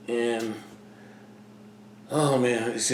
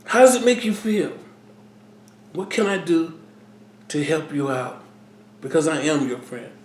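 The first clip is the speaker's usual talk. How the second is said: raised, gentle opener of a concerned friend, then settling; caring friend checking in; 3 dB louder than usual. Shown as a demonstration. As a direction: show how a true friend asks what's wrong. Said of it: "That's how you should come to somebody about this".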